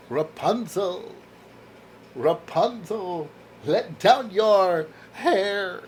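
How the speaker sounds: slow, drawn-out storybook call. Acted. Reader playing at calling up to Rapunzel, slow mock storybook call. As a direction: stretch each word, calling up lightly to Rapunzel. Calls out the fairy-tale line.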